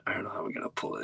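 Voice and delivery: whispered private panic; nervous whisper. Retold or imitated. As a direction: whisper it to yourself in dread. Panicked thought backstage.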